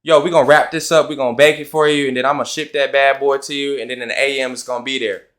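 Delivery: loud, easy street-talk phone voice; casual slangy business call; casual phone slang. Shown as a demonstration. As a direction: talk to the customer like a buddy, loudly. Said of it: "same things two different ways".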